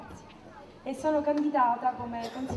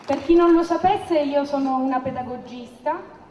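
loud rally speech; 7 dB louder than usual. Real, not acted. Candidate speaking loudly to crowd.

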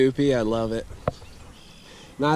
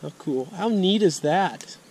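higher, slow, sing-song cutesy voice for the fish; silly put-on voice; 4 semitones higher than usual. Real, not acted. Vlogger cooing at a bullhead he spots, silly higher voice. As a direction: coo at the fish like a pet. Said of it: "I don't know why I'm talking like that".

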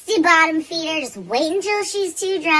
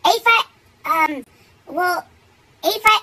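put-on high drunk guy voice; 5 semitones higher, 7 dB louder than usual. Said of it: "and he goes".

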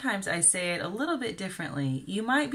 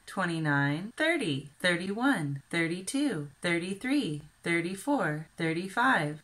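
counting demo. Shown as a demonstration. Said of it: "after the tens place number".

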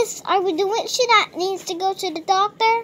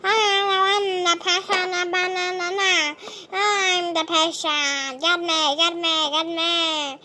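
odd patient voice. Pretend. Pony acting strange as patient.

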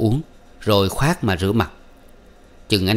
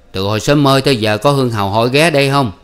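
louder, higher, pointed question; suspicious father; 4 semitones higher, 5 dB louder, faster than usual. Acted. Sủ questioning his son about the visitor, suspicious. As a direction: press the boy for the truth.

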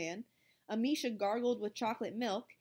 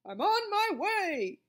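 higher, louder, slow eager cry; cried out; 11 semitones higher, 7 dB louder, slower than usual. A narrator's reading. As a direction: call it out charging off. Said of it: "cried Missus Buns".

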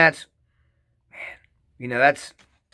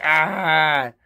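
excited yelp; 3 semitones higher, 4 dB louder than usual. Retold or imitated. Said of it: "When I get excited, it's like".

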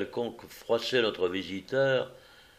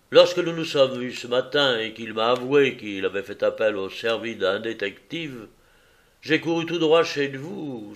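louder visitor voice, relaxing; relieved visitor; 2 semitones higher, 4 dB louder than usual. Acted. Visitor relaxing once reassured, a touch louder. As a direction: give in, relieved and talkative.

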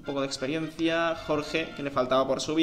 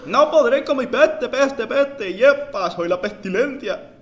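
villain pestilence voice; 9 semitones higher, 8 dB louder, slower than usual. Acted.

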